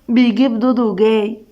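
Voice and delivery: lightly mischievous tease; a touch of mischief; sly. A narrator's reading. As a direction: announce it with sly relish. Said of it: "آدم بخبث".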